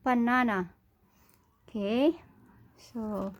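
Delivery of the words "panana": "banana" said with an initial P, as "panana". Shown as a demonstration. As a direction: start "banana" on a P sound instead of B. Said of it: "papronounce po natin siya ng P".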